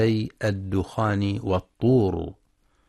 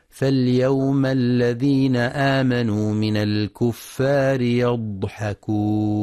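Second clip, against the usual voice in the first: slow, melodic tajweed chant; Quran recitation. Shown as a demonstration. Teacher recites the verse for students, slow tajweed chant. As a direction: recite the verse slowly with long held vowels. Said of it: "ومثله في قوله تعالى".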